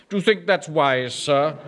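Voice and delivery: a lightly mocked snooty "Do you think that's wise" with "thats" leaned on; supercilious imitation. Manager mocking his clerk's sniffy tone. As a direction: mimic the chief clerk's sniffy doubt, only lightly. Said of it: "in that supercilious voice".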